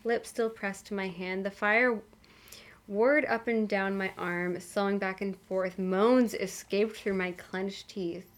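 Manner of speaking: soft, even audiobook reading; measured reading with lightly acted dialogue; story narration. A narrator's reading. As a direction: read the story aloud with understated drama.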